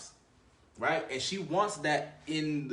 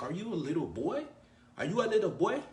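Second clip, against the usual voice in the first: failed attempt at a Russian accent, rising higher and louder; mocking Russian girl taunt, building up; 7 semitones higher, 3 dB louder than usual. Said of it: "I can't talk like a Rus-, uh, the Russian accent".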